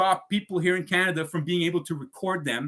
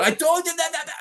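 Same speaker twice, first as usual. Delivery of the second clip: mocking the agent; 13 semitones higher than usual. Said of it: "again, she just".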